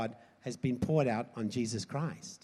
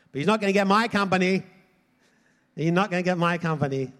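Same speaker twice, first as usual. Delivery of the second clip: raised, emphatic refusal; defiant declaration; 3 semitones higher, 6 dB louder than usual. Real, not acted. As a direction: declare it firmly to the congregation. Defiant declaration against Satan.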